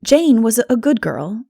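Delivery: ordinary delivery, nothing marked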